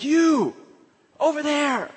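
high calling-out across the street; retold yell. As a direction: call out to the teens, pitched high. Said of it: "yelling at them".

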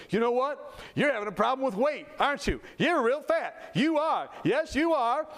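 acted-out taunt, ending high; retold needling insult. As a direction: needle them, pitch climbing as it goes. Patient insults another person.

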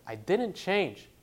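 insistent retold protest, slowly. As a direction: stretch it out and raise the voice. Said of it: "he started saying louder".

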